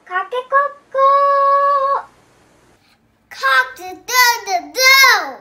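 sung rooster crow. Shown as a demonstration. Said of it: "A rooster says".

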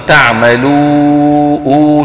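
تعملوا drawn out with a nasalized oo; واو بغنة. Shown as a demonstration. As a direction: wrongly send the long و of تعملوا through the nose. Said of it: "خلط صوتها بشيء من صوت الغنة". (تعملوا بواو ممدودة فيها غنة)

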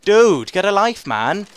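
loud indignant yelling; outraged shout. Real, not acted. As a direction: yell in outrage. Outraged at enemy's missile kill.

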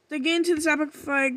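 tumbling out, x1.6; gushing about the episode at speed; excited fast talk. Real, not acted. Fan gushing to viewers about loving the episode, fast. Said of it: "I'm sorry if I'm talking fast".

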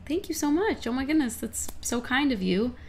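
high, bright-eyed fan thanks; gushing thanks. Retold or imitated. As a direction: gush your thanks up high. Fan meeting, gushing politely.

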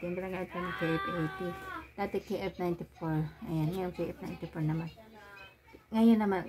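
muffled behind mask; speaking masked; through a face mask. Real, not acted. Seen 3: White face mask worn over nose and mouth throughout.

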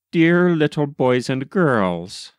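a hint of doddering Santa quaver. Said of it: "in a quavering voice".

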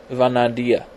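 Ivanidae reshaped as "ee-von-ah-DEE-ah"; uncertain pronunciation. Shown as a demonstration. Vlogger fumbling a wasp family name, Ivanidae ending "dee-ah". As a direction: have another stab at Ivanidae, ending "dee-ah". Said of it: "I'm really horrible at pronouncing things".

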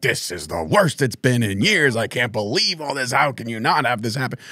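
a touch of mock outrage; mock internet warrior. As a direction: lightly put on an outraged fan's griping. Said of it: "these internet warriors out there saying".

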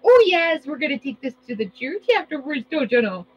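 playful Minnesotan church-lady lilt; Minnesota accent. Pretend. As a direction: answer in a put-on Minnesota accent. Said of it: "I talk like the Minnesota".

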